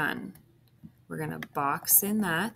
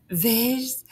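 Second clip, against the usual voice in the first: whispered "Vis-" under the breath; unsure whisper; 7 semitones higher, 6 dB louder than usual. Real, not acted. Teacher whispering to herself over a tricky word. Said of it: "this one I have trouble with".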